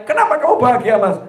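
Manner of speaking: mock wife asking. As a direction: ask it like the wife. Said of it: "kalau istriku nanya".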